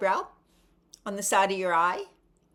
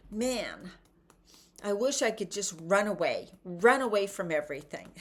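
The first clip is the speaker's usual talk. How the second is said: mock frustrated venting. Shown as a demonstration. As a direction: vent like you're sick of being stuck. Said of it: "yelling because you're frustrated".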